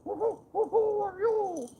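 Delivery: high, slow hooting owl voice. Retold or imitated. Angler mimics the owl hooting across the water, high and slow. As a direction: hoot each who up high like an owl. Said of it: "That owl's like".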